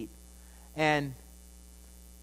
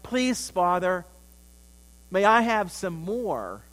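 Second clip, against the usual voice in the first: sincere plea; 5 dB louder, slower than usual. Retold or imitated. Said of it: "if we say to the Lord".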